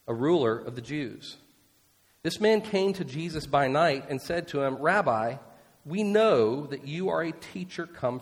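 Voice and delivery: measured, steady reading of the Bible text; scripture reading. Acted. Preacher reading the chapter to his congregation, measured. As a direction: read it out like a lesson in church. Reads scripture passage aloud.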